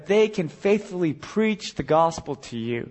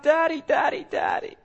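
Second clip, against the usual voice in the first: crying out; 11 semitones higher than usual. Retold or imitated. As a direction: call out to him in trouble. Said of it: "we cry out".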